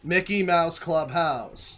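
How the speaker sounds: slow drawn-out mock echo; slow mocking echo of the kid. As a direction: parrot the kid's flat text-to-speech delivery, slowly. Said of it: "that's what this guy's doing".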